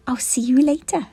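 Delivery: high, loud cheerful owl; Hoot. A narrator's reading. Hoot saying goodbye to the toys, high and cheerful. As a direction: call it back brightly as she goes.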